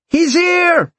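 sudden high shout of alarm; yelled warning. Acted. Guard shouting to his friends that the thief is here, a high alarmed yell. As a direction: cry out to warn the others. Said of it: "just as he started to yell".

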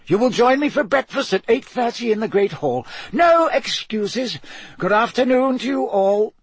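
put-on a firm old headmaster closing the matter; Dumbledore voice. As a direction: brook no excuses, kindly but firm.

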